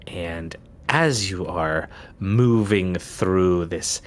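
slow, hushed scene setting; game master scene setting. A narrator's reading. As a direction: draw them slowly into the dark. GM sets the dream scene.

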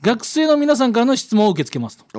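clear, projected radio letter read; storytelling read-aloud voice. A narrator's reading. Reads out listener's letter.

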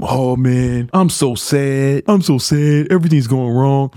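drawn-out mock self-pity; mock depressed. Host imitating a negative friend, mildly mock depressed. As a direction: put on a mild sad-sack moan. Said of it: "all depressed and sad".

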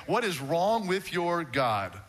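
slow taunt. Retold or imitated. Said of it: "he is taunting them".

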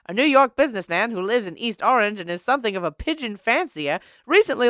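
lightly voiced old-timey newsreader. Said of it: "use the old-timey voice".

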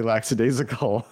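"lackadaisical" said as LAX-a-daisical; deliberate wrong S. Pretend. Podcaster winding up listeners, "lackadaisical" as laxadaisical on purpose. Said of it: "now I know what to say".

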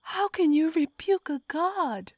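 high, loud, hissed challenge to a god; hissing. A narrator's reading. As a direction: spit it at the god in disbelief. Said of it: "hissing at the god".

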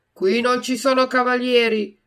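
loud, hard retort; harsh reply. A narrator's reading. Puppeteer rebuffs the plea again, harsh and loud. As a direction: refuse him flatly and sternly. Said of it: "replicò duramente".

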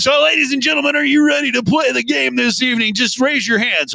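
rally the contestants like a show host; game show host. Pretend. Hosts trivia game show.

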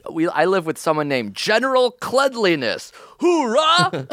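high, hammed-up army general, shouting hoorah. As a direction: bark it like a proud drill general. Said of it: "And he's like".

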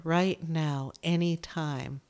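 "right now" said low and settled; calm. Real, not acted. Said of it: "Right here".

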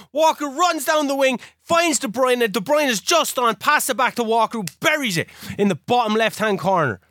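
high-pitched play-by-play, settling gradually; excited commentary. Real, not acted. Player describes Walker's goal, excited commentary. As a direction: recount the goal like an elated commentator.

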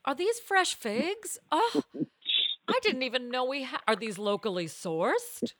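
posh squirrel voice. Pretend. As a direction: marvel at the food like a snob.

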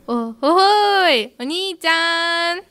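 slow stretched cartoon kid voice; cheeky little boy, drawn out slowly; Shin-chan voice. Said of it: "くれってますね". (しんちゃんっぽいゆっくりした声)

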